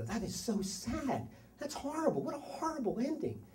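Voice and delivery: mock dismay. Dad to daughter after a movie, mock dismay. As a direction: lament it high and softly. Retelling own reaction to movie.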